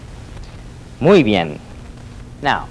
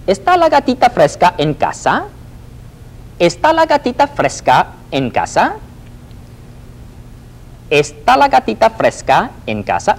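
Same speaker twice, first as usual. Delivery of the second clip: high, loud playful cartoon cat on the phone; high chirpy cartoon caller asking for a friend; cartoon kitten voice; 11 semitones higher, 4 dB louder than usual. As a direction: squeak it out like a cartoon cat calling.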